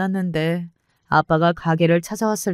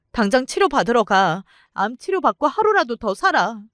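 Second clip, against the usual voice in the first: pleading, rising higher toward the end; mild tearful pleading; 3 semitones higher than usual. Retold or imitated. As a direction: plead with a dying mother, half in tears. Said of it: "끌어안고 많이 울었어요". (죽어가는 엄마에게 매달리는 울먹이는 호소)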